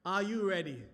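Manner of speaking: loud rallying call to the crowd; hype call. Real, not acted. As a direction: pump up the audience.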